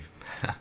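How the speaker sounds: a short, breathy, bitter chuckle. Acted. Fox laughing off booting Crystal, bitter chuckle. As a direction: laugh it off, but let the bitterness show. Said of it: "He chuckled, but it reeked with bitterness".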